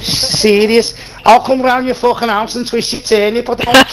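put-on British accent. Threatening to come round, in a put-on British accent. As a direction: threaten them like a young British hard man.

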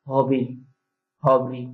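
হবরি with h for পেয়ারা; Barisal dialect word. Shown as a demonstration. Teacher gives the Barisal word for guava. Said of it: "এটাকে বরিশালের ভাষা বলা হয়".

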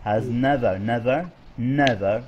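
"never" drawn out slowly each time; stress on never. Shown as a demonstration. Teacher showing the stressed word, "never" slowly emphasised. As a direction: dwell on "never" as the key word. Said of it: "أنا شو ركزنا".

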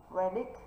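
"Predict" stressed on its second syllable, ending on a rise. Shown as a demonstration. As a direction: model "Predict" as pre-DICT. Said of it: "trọng âm rơi âm tiết thứ hai".

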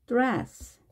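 드레스 in three Korean syllables. Shown as a demonstration. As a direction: say 드레스 with full vowels after D and S. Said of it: "우리가 보통 드레스라고".

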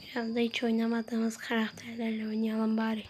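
unvoiced whisper to viewers. Real, not acted. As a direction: whisper it under your breath.

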